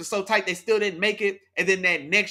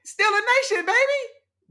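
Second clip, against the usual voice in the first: hyped team cheer; 13 semitones higher than usual. Real, not acted. Hyping his team on stream.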